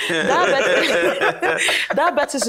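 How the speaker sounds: talking through real laughter; laughing. Real, not acted. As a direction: break into laughter around the word. Joking reply to PhD remark.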